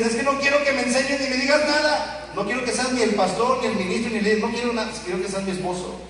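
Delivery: a wife begging her husband just to listen; mock complaining wife. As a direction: play the wife who only wants comfort. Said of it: "a veces dicen".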